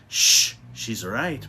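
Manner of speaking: slow, otherworldly booming voice; booming witch voice. A narrator's reading. Miss Witch booms to calm them, slow and strange. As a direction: boom it out slowly like a strange being. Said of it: "boomed Miss Witch voice".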